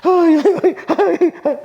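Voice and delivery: hammed-up lament, high and loud; fake wailing. Shown as a demonstration. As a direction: ham up a paid mourner's cry. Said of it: "Fingir que lloras".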